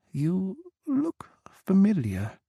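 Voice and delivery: high, slow whisper. Acted. Tipsy woman peering at Jack's face, slow high whisper. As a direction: breathe it out while peering at him.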